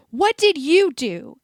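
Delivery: loud high furious shout. A narrator's reading. Harry losing control at Malfoy, shouting. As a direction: explode at him. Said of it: "he shouted".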